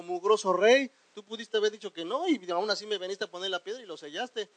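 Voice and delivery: mock insult to the king. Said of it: "No le dijo".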